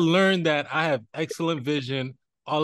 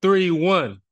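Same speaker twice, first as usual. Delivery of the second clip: loud, drawn-out gloating scoreline; bassy, happy boasting; 4 semitones higher, 6 dB louder, much slower than usual. Real, not acted. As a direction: crow the score proudly, stretching it out with pauses. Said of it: "he got a lot of bass in his voice".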